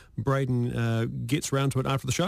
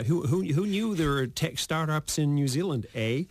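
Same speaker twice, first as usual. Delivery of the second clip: imitating a Canadian, badly; bad Canadian accent; 3 semitones higher than usual. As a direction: put on a rough Canadian accent with a tagged-on "eh". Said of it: "That's really bad accent".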